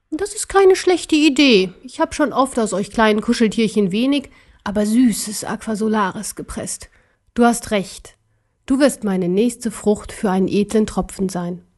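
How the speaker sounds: lightly voiced, menacing relish; gloating emperor. (genüsslich drohender Kaiser)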